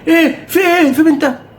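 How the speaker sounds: high alarmed imitation of mom; mother alarmed. Son imitating his startled mother, high. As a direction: squeak out mom's startled questions.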